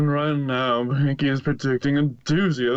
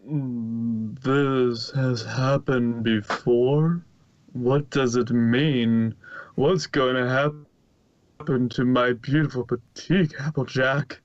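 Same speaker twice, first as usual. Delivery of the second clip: lightly voiced pleading. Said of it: "the white unicorn pleaded".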